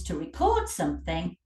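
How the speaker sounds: to re-CORD something; reCORD, the verb; stress on second syllable. Shown as a demonstration. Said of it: "it becomes a verb".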